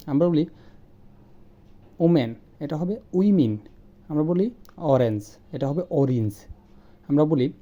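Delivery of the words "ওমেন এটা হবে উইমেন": "ওমেন" corrected to "উইমেন" with a wi- start; correct pronunciation. Shown as a demonstration. The teacher corrects omen to wimen.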